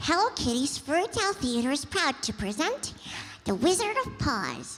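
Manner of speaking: high, squeaky, swooping, sing-song, bright cartoon voice. An interviewer imitates the voice they asked about: squeaky Hello Kitty voice. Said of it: "having like a very squeaky voice".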